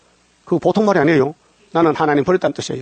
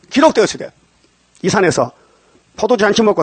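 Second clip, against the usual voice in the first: forceful rebuke; 5 semitones higher than usual. Shown as a demonstration. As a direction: hit 기록되었으되 hard, like a command. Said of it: "마귀에 끌려가지 말고".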